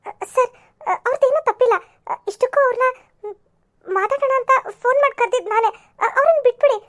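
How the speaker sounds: a touch of crying, stammering plea; tearful pleading. Acted. Girl tearfully begs the policeman to release him. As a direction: beg through tears to let him go.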